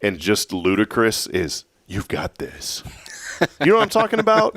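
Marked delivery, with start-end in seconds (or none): 1.9-2.8 mock encouragement. Mimics an overused encouragement.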